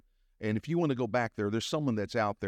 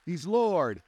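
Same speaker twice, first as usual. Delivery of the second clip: proclaiming; 8 semitones higher, 4 dB louder than usual. Real, not acted. Proclaiming, then echoed softer.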